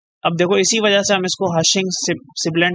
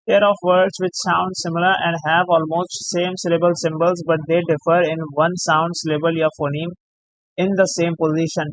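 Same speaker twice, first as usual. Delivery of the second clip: very slow, word by word, like dictating notes; slow dictation; much slower than usual. Acted. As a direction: spell out the term for students to write down. Reads out definition slowly.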